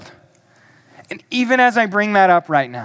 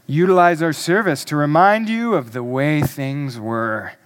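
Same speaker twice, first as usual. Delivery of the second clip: lower, lightly voiced ad announcer; advertiser's voice; 5 semitones lower than usual. Pastor mimicking a nostalgic service ad, advertiser's voice. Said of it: "That's my advertiser's voice".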